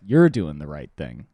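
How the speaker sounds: Spike Lee impression. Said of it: "He'd be like".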